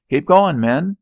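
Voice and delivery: high, loud yell; shouted order. Acted. Officer shouting his troops forward. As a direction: bark it at the men.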